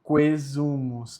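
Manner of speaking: "Quesumus" starting "kwé", no a sounded; silent A. Shown as a demonstration. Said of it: "ele é mudo". ("Quesumus" com o A mudo, "kuézumus")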